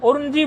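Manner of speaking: उर्नजी with the r sounded before the n; mispronounced. Shown as a demonstration. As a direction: say उर्नजी wrongly, r then n. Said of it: "रेफ पहले बोल देंगे नकार से". (उर्नजी में नकार से पहले रेफ)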